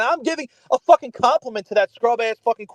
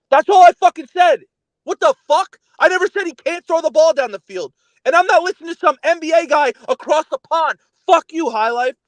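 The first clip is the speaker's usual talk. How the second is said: real frustration, raised voice; angry outburst; 4 semitones higher, 4 dB louder than usual. Real, not acted. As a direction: voice raised, fed up and yelling. Heated argument over football takes.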